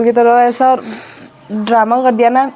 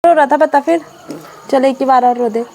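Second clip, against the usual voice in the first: teasing brother; 3 semitones higher than usual. Real, not acted. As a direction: needle him playfully to talk. Sister teasing crying little brother.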